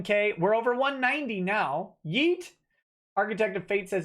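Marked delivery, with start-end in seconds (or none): 2.0-2.5 excited yelp. Real, not acted. Cheering the donation total.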